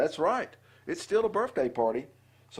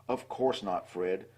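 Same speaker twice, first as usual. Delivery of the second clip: soothing; 4 semitones lower than usual. Acted. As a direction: gently reassure the worried cub. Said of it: "soothed Mother".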